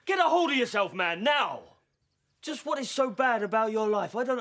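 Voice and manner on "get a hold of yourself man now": shouting. Acted. Struggling with shouting friend.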